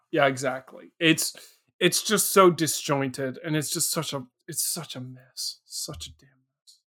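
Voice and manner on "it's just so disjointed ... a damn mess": sinking from plain talk to a near-breathless mutter; fading to a mutter. Real, not acted. Complaining to his co-host about the film, trailing off into a hush. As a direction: let it die away in disgust.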